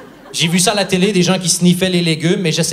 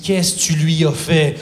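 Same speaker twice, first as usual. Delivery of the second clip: panicked questions. Retold or imitated. Panicked husband questioning his wife.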